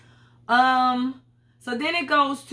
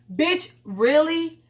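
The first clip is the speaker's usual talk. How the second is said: incredulous; 5 semitones higher, much slower than usual. Real, not acted. Disbelief at Giselle's tears.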